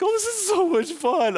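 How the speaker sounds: high, put-on sing-song delight; mock giddy, carefree fun; giddy partygoer. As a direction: people wandering far from chairs, high giddy voice. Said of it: "It's like".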